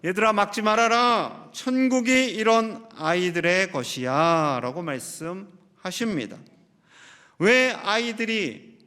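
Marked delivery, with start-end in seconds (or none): 0.0-4.6 a lightly voiced firm command; understated resolute tone, slowing at the end. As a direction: say it with gentle firmness, like a teacher. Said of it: "예수님께서 단호하게 말씀하십니다".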